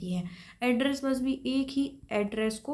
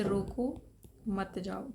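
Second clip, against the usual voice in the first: रोको alone, a pause, then मत जाओ softer; pause after रोको; 2 semitones lower, 5 dB quieter, much slower than usual. Shown as a demonstration. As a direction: break after रोको, keep मत जाओ together. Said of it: "आपको जहाँ comma लगाना चाहिए". (रोको के बाद विराम)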